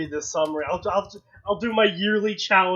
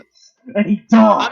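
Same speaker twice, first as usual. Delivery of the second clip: through a tube; 3 semitones higher, 11 dB louder than usual. Shown as a demonstration. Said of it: "the sound of autistic Bane".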